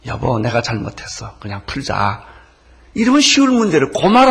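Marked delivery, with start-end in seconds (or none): 0.1-2.2 gentle apology. Retold or imitated. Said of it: "이렇게 말하면 간단해".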